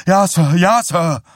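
put-on boy crying out under the mayor's shouting; panicked boy. A narrator's reading. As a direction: blurt it out in terror. Boy cries out under pressure.

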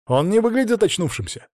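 Alexei's anxious objection; worried. A narrator's reading. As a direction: fret over the sleeping friend. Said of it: "забеспокоился Алексей".

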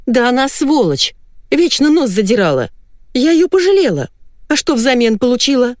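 wife erupting in fury at her rival; furious outburst. A narrator's reading. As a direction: spit out her jealous rage, voice climbing. Wife's jealous outburst.

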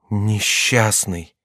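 slow horrified reproach. Acted.

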